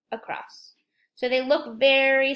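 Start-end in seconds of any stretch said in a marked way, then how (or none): 0.1-0.7 soft unvoiced whisper of across. Shown as a demonstration. Teacher tracing the letter in the air, whispering across. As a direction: breathe the word across as you trace. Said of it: "Lowercase x is very similar".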